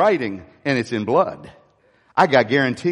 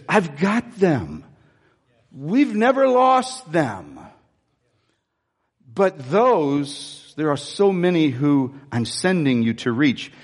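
voice of God; 2 semitones lower, slower than usual. Retold or imitated. God reassuring the pastor, slow and tender. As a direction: reassure him, slowly and gently. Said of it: "he gave me this".

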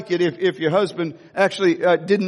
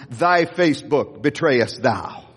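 slow, solemn King James line, a bit lower; corrected King James; 6 semitones lower, slower than usual. Shown as a demonstration. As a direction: intone the corrected old scripture slowly. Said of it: "did I get the King James wrong?".

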